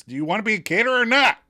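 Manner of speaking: high, loud, rushed demand; exasperated challenge. Retold or imitated. Friend confronting a dithering caterer, mock exasperated. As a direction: fire it off as a mock ultimatum. Phoebe challenging Monica in recap.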